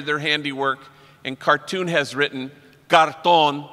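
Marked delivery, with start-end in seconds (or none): 1.3-3.7 Cartón said the Spanish way, stress on TÓN. Shown as a demonstration. Showing the misspelled tag, Cartón with Spanish stress. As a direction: stress the last syllable of Cartón, Spanish style. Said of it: "which means cardboard in Spanish".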